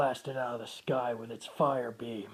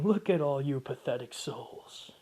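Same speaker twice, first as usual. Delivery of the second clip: villain taunt; 4 semitones higher, 4 dB louder than usual. Acted. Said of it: "hysterically laughing, just going".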